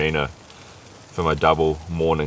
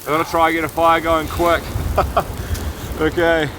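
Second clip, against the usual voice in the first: gasping in icy wind; 8 semitones higher than usual. Real, not acted. Outside in blizzard, wind.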